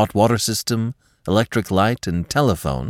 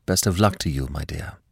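softer tone; 4 semitones lower, 4 dB quieter than usual. Acted. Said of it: "in a different tone".

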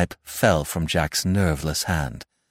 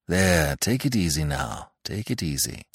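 soft, low soothing words, fading quieter; calm reassurance; 3 semitones lower, 4 dB quieter than usual. Acted. Doctor bending over a man who fainted, calm and reassuring. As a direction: settle him down gently.

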